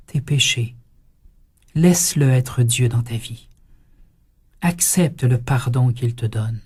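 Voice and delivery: lent, posé, d'une voix apaisante de prêtre; doux et rassurant. Retold or imitated. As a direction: consoler l'homme qui pleure, tout doucement. Priest gently counsels weeping penitent. (le prêtre console le pénitent en pleurs, lentement et doucement)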